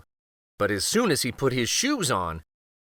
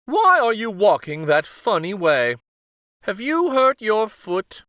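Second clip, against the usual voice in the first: higher, louder worried questions; concerned queen; 8 semitones higher, 5 dB louder than usual. Acted. Queen to the limping king, worried and high. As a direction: ask as a fussing queen. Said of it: "said the queen".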